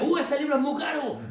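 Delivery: high, laughing squeal of a stingy editor; shocked editor. Retold or imitated. Editor hearing of a thousand pages, high laughing squeal. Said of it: "Y dice".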